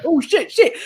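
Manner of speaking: high, loud flustered swearing; acted-out fluster under pressure; retold panic. Driver trying to start the car, retold panic.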